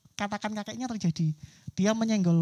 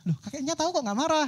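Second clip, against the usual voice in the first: higher, startled question; surprised child; 6 semitones higher than usual. Acted. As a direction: caught off guard, voice jumps up. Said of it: "kaget anaknya". (anak kaget bertanya dengan nada tinggi)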